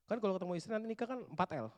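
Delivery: ordinary talk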